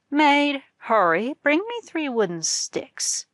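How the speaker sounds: the wife orders sticks to beat her husband; angry command. A narrator's reading. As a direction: snap the order out in fury.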